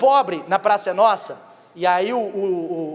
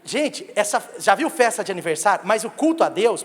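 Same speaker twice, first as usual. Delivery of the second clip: normal talking voice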